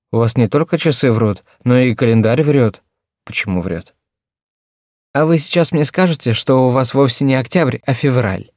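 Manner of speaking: put-on teasing young girl. A narrator's reading. Nina the girl speaking.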